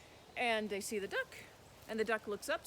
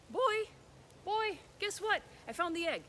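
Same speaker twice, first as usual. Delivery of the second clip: put-on higher, eager girl's voice; girl telling the boy she found the egg; excited news; 10 semitones higher, 3 dB louder than usual. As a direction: burst in with the good news. Girl brings big news.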